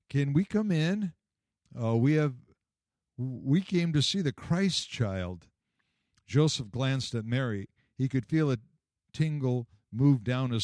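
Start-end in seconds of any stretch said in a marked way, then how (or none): 0.1-5.5 put-on halting old shepherd, unsure of his welcome; hesitant. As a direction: ask timidly, stumbling over the words. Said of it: "spoke hesitantly".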